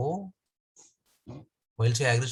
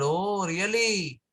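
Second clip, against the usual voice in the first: sarcastic; slower than usual. Acted. Yashoda mocking the complaining gopi, sarcastic. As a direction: tease her with sarcastic disbelief. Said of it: "with great, you know, sarcasm".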